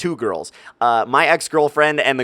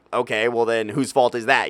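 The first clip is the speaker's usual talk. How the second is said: ordinary delivery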